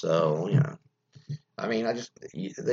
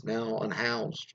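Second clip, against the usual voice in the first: sarcastic; 6 dB quieter, much slower than usual. Pretend. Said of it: "or as I like to call them".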